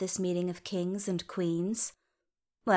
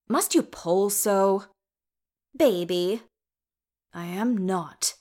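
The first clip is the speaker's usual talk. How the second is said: gruff dwarf grumbling; slower than usual. Acted. Thorin grumbling during stitches.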